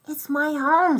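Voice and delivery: with dignity. A narrator's reading. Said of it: "said Ralph with dignity".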